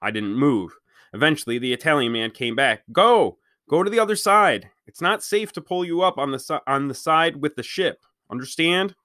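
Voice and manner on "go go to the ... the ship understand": urgent command. Acted. Man urging boy from dock.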